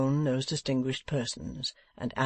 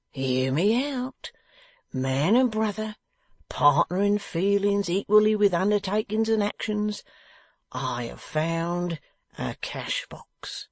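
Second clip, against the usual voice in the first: higher, slow and pompous; grand stalling; 6 semitones higher, slower than usual. A narrator's reading. Wegg teasing Venus with the find, slow and high. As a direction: puff it up, take your time.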